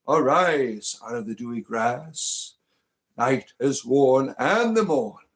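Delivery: slow, solemn bardic recitation; grand, drawn-out poem reading; poem recital. Acted. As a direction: intone it like an ancient bard over music. Recites a Blake poem over music.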